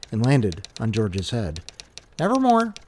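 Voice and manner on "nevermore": high croaking raven voice; raspy cawing crow. Acted. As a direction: caw it like a raven. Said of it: "said the raven".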